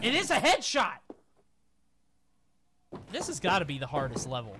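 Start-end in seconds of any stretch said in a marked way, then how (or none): 0.0-1.0 loud frustrated yell; shouting. Real, not acted. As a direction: yell it at the screen. Yelling at the game.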